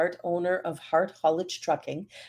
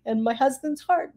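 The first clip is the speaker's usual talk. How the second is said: choked up; 2 semitones higher than usual. Real, not acted. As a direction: voice catching while reading the mother's thanks. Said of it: "I'm getting all choked up here".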